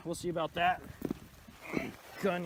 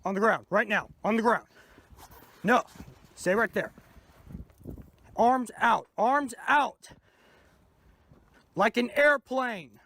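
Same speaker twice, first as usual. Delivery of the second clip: firm commands; 3 dB louder than usual. Acted. Officer ordering suspect down.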